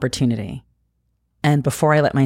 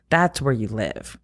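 gentle self-talk. Retold or imitated. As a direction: soothe yourself tenderly. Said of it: "I was like".

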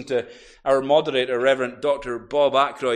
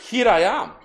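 raised, higher voice, announcing himself; Jesus calling out; 6 semitones higher, 5 dB louder than usual. Acted. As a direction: call it out openly as Jesus. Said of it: "He's saying".

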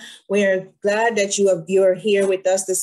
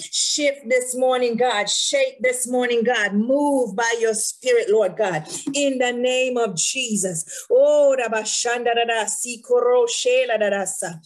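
raised, impassioned praying voice; fervent prayer; 3 semitones higher than usual. Real, not acted. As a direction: pray it out with rising fervour.

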